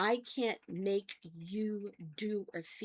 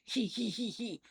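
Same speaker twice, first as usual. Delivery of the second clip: teasing little hee-hee snicker; mock giggle, short and repeated; imitated giggle. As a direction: mimic a husband's gleeful titter. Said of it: "he would start laughing".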